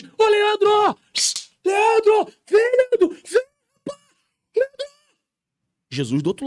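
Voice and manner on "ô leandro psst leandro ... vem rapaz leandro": very high, loud tearful calling; desperate wailing call across the wall; crying shout. Acted. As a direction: scream his name through tears. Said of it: "Jesus do lado de cá tá gritando, tá chorando".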